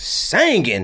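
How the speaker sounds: "singing" drawn out as "sangin'"; emphatic sangin'. Real, not acted. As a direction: stretch "singing" slowly into "SANG-in". Stresses real singing with altered vowel.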